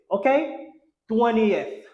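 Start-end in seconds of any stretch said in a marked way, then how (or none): 1.1-1.8 "twentieth" as "TWEN-ee-eth", falling; correct three-syllable twentieth. Shown as a demonstration. Teacher gives the right form, "twentieth" as "TWEN-ee-eth". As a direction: open the ending of "twentieth" into "ee-eth". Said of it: "il va faire".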